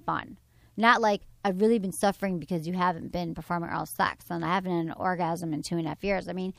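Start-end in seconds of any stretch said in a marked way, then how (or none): 1.4-6.3 low, weary lament; mock long-suffering complaint. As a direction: complain like you've been suffering, pitched down. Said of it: "keep these sex conversations playful and light".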